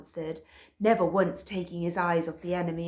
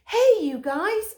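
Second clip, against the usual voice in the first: high, slow friendly dog call; high slow call to the gang; Stick Dog voice; 14 semitones higher, 7 dB louder than usual. A narrator's reading.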